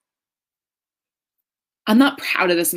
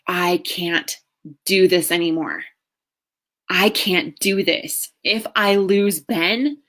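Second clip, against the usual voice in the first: despairing breakdown. Retold or imitated. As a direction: break down over the spaghetti, voice rising. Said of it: "And I was like".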